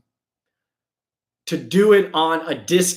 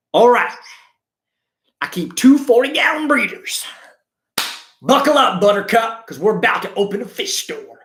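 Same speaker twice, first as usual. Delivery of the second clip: hyped new owner; 5 semitones higher than usual. Retold or imitated. New store owner gearing up.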